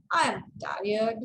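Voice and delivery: slow sarcastic delivery. Shown as a demonstration. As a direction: stretch it out with dry sarcasm. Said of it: "you wanna be sarcastic".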